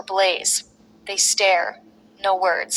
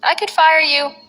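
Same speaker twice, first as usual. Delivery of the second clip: shaking with fury; 6 semitones higher than usual. A narrator's reading. Vice general manager threatening Blaze after being thrown, furious. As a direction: spit the threat out in anger. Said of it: "voice shaking with fury".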